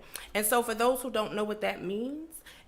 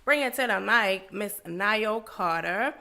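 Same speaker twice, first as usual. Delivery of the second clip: slow announcer intro; slower than usual. Acted. Slow drawn-out guest introduction.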